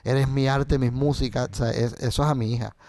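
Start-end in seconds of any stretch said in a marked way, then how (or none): 0.0-1.5 a tender recited poem; poem recital. Real, not acted. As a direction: recite it gently to his daughter. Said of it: "yo tengo un poema".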